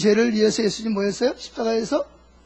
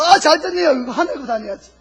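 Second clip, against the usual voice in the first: high, gleeful start breaking into a laugh; mock delight; 6 semitones higher than usual. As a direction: play brazenly pleased, laughing it off. Repeats the brazen wrong reaction. (웃음 섞인 뻔뻔한 신난 척)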